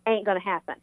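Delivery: lightly put-on Southern accent. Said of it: "in my Southern accent".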